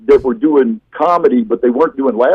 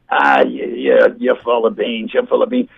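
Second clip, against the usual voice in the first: put-on elderly man; 3 dB quieter than usual. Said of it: "eighty, late eighties".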